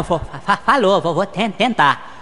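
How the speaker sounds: slow stammer on each syllable; stuttering Gaguinho. Acted. Friend on the phone stammers a greeting. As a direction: trip over the first syllable, then push through. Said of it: "O Gaguinho".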